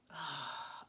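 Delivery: long sigh of pleasure; blissful sigh. Real, not acted. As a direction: sigh as if savouring a lovely smell. Savouring the smell of product.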